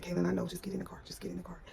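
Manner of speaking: near-whispered, urgent instruction; hushed urging. Retold or imitated. Mother urging her daughter into the car, hushed. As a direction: drop to a hush, hurrying a child along. Hushing daughter while fleeing.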